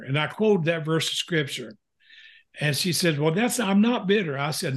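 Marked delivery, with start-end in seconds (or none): 3.2-4.4 wife denying. Retold or imitated. Wife voiced denying bitterness.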